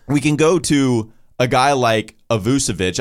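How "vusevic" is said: Vucevic with an S, VOO-suh-vitch; variant pronunciation. Shown as a demonstration. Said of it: "I've heard it called".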